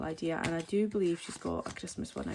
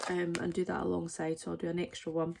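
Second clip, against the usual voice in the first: hiccups. Real, not acted. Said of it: "I've got the hiccups".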